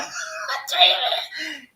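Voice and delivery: real crying break, loud and very slow; choked up. Real, not acted. Host praises God to his viewers, choked up and crying.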